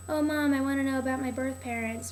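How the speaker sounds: lightly put-on teenage daughter; whiny daughter imitation. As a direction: mimic a girl pleading with her mom. Imitating the girl asking her mom.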